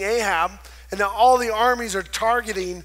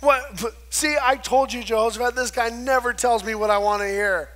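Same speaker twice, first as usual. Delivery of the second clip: mildly angry; 4 semitones higher, 3 dB louder than usual. Retold or imitated. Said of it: "Ahab gets even more mad".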